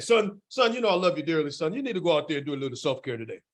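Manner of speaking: lightly voiced loving father, lecturing his son; a hint of a fond dad giving advice. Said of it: "Doing my dad voice".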